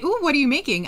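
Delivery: the wrong way to ask. Shown as a demonstration. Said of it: "I don't say".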